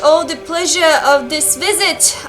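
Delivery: put-on theatrical old-world game dialogue; lightly performed olde-English lines; archaic dialogue read-out. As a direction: read it like a costumed village drama. Reads game dialogue aloud in character.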